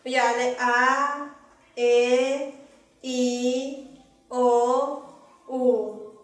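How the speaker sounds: slow, low-pitched vowels "A, E, I, O, U". Shown as a demonstration. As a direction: drawl "A, E, I, O, U" slowly, tone low. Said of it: "Vocales tono bajo".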